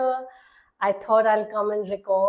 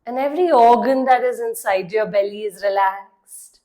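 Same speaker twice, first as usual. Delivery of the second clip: measured meditation voice with long pauses; guided meditation; 4 dB louder than usual. Acted. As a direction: guide the listener into relaxing, leaving long silences between phrases. (calm guided-meditation delivery)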